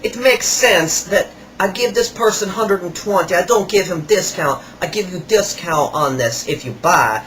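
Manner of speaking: lightly voiced flattering seller; imitating the salesman. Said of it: "So he goes".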